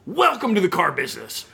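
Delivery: a hearty welcome, said through a smile; grinning welcome. Retold or imitated. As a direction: welcome him like a proud boss. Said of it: "big smile on his face".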